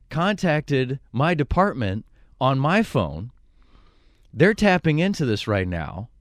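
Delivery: slow, emphatic mock-police warning; Officer Conway. Fake officer warns caller he is being traced, deliberate. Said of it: "I used Officer Conway".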